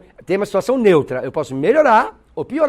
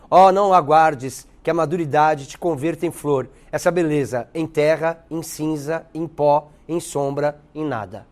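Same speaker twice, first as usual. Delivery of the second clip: measured verse, sinking at the last words; poem recital; 2 semitones lower, slower than usual. Acted. Teacher reciting Gregório de Matos to students, poem recital. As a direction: recite it solemnly, item by item, dropping at the end.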